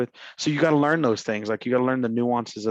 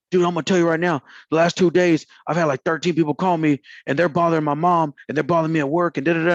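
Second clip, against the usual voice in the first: imitating angry guy; 4 semitones higher than usual. Angry owner venting on call.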